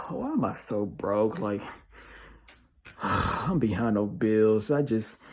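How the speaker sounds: hammed-up sigh of a person stuck in a rut; sighing broke complainer. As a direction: imitate someone worn down by bills. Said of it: "a financial example".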